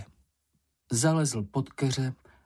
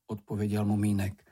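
usual speaking voice

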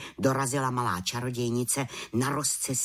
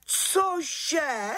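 much higher shocked head witch; shocked cry. A narrator's reading. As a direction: cry out in disbelief. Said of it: "vykřikla vrchní čarodějnice". (vrchní čarodějnice šokovaně vykřikne vysoko)

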